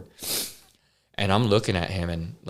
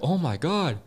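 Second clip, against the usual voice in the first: much higher, rising shocked question, louder at the end; shocked gasp; 11 semitones higher, 4 dB louder than usual. Retold or imitated. Inmate sees blood on walls, squeaky shocked question. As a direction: recoil at the blood in the cell. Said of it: "he's like".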